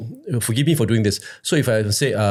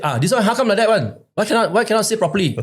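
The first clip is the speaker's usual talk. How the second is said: higher-pitched exasperated caller; put-upon, protesting caller voice; complaining caller; 10 semitones higher, faster than usual. Retold or imitated. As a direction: mimic an indignant phone-in complainer. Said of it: "then he said".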